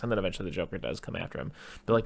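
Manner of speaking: normal talking voice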